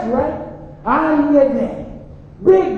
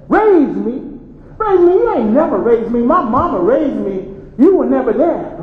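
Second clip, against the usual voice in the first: indignant son; 3 dB louder than usual. Acted. Son furious at absent father.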